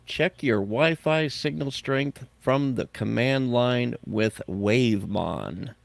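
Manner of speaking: put-on slow, drawled country-accent announcer read; hammed-up country accent, reading the headline slowly; mock country accent. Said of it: "Bill, just stop with the accent".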